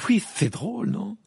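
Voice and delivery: high, loud amused outburst; guffawing. A narrator's reading. Ron finding his friend's news hilarious, guffawing. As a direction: burst out in mirth. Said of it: "s'esclaffa Ron".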